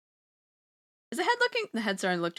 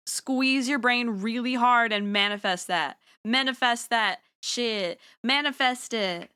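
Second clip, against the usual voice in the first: slow, emphatic pep talk; mock-earnest rallying; 3 semitones higher, 3 dB louder, slower than usual. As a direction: urge the crowd on, stretching each command. Rallying chat to manifest.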